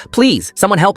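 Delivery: high, drawn-out plea; hysterical. A narrator's reading. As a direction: plead frantically for help, slowly. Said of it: "Alice was hysterical".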